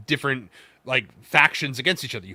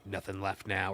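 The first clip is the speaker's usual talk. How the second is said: Batman voice; 6 semitones lower, 13 dB quieter than usual. Retold or imitated. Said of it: "and Batman's like".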